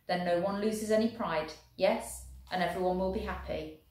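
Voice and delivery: lightly voiced German officer, careful and friendly; a hint of a polite German soldier. German proposing the coin toss to the Welshman, lightly voiced.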